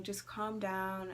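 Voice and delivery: slow, measured reassurance; calming paramedic. Retold or imitated. Paramedics calming the panicking patient, slow and soothing. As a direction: imitate a paramedic slowly soothing. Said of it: "the ambulance people calm me down".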